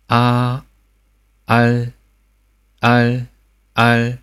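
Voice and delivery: 啊 with the tongue tip pressed to the palate; correct coda. Shown as a demonstration. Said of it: "错误发音". (正确的收音读法)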